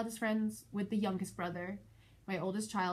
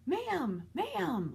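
higher mock call of ma'am, ma'am; 6 semitones higher than usual. Kids calling after her from the car, higher pitched. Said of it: "like, screaming in the background".

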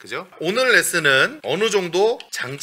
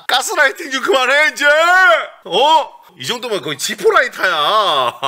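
high, loud comic outburst at a mother; mock exasperated protest; 11 semitones higher, 7 dB louder than usual. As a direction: protest loudly, half laughing at the absurdity. Acts out fighting back at mother.

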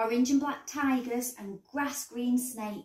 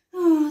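long, drawn-out sighing "oh"; deep sigh; 5 semitones higher, 10 dB louder than usual. A narrator's reading. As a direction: heave a big rhino sigh. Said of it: "the rhino sighed deeply".

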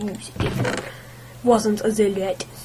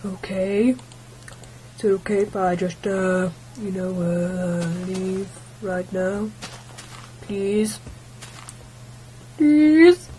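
freaked-out viewer; 2 semitones lower, slower than usual. Retold or imitated. A scared viewer trying to leave, pleading. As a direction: back away, then beg for mummy. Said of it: "You're like".

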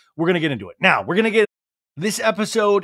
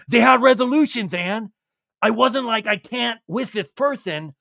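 high earnest bro; lightly voiced Sandoval; 6 semitones higher, 4 dB louder than usual. Sandoval justifying the Tahoe fights to Ann, high bro voice. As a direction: explain it away. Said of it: "he's like".

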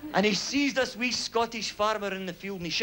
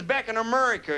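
boastful American accent, lightly hammed up; big American accent; 3 semitones higher than usual. Big American boasting to a Scottish farmer, American accent. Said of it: "what about the big American".

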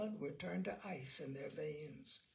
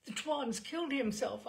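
retold cry; 8 semitones higher, 5 dB louder than usual. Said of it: "I cried".

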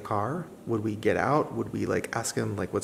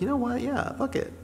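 excited; 13 semitones higher than usual. Retold or imitated. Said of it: "And I was like".

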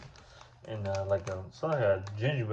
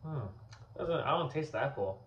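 holding a drink, mouth clear; pausing between sips; just after a sip; 4 semitones higher, 5 dB quieter than usual. Real, not acted. Seen 2: drank at -5 to -3, holds bottle, mouth empty while talking.

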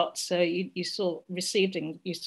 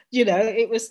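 ordinary talk, nothing marked

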